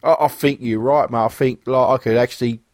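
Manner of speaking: a hint of an English pub lad; lightly voiced English lad. Agreeing Biff beats Bruce, in a light English lad accent. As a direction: agree with your mate, slightly put-on English. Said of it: "if I'm talking like this".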